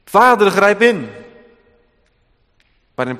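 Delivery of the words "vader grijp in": higher, louder, slow pleading demand; a forceful plea for judgment; urgent loud prayer. Pretend. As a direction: cry out to the Father to intervene. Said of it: "had kunnen bidden".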